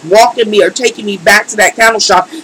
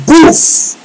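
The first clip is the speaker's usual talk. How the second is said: sudden high "boof" burst; imitated flare-up; 8 semitones higher than usual. Storyteller mimics the furnace coming on full, sudden burst. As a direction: punch out the sound of fire igniting.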